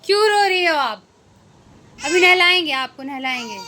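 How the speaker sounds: mother coaxing her crying daughter with promises of a bath, high and loud. Real, not acted.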